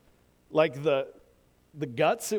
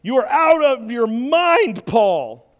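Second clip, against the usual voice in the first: shouted; 5 semitones higher, 7 dB louder, slower than usual. Acted. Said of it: "he shouted".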